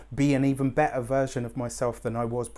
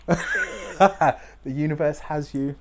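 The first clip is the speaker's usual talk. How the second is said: laughing through tears; 2 semitones higher, 4 dB louder, slower than usual. Real, not acted.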